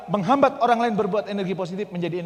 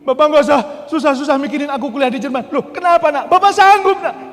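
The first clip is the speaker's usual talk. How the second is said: lively retold phone call; 12 semitones higher, 14 dB louder than usual.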